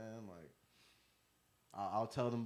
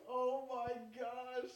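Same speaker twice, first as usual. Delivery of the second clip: dismayed whisper-gasp; 10 semitones higher, much slower than usual. Retold or imitated. Panicked realisation on the phone.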